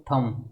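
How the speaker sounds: थंब closing on M, no B; silent B. Shown as a demonstration. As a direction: leave the B off थंब. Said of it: "इनमें बी silent होता है".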